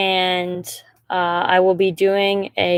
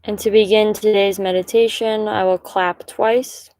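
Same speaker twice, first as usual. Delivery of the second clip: calm, measured meditation guide, pausing between phrases; guided meditation. Acted. Guide inviting listeners to settle and breathe, calm meditation voice. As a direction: lead them gently, leaving long silences between instructions.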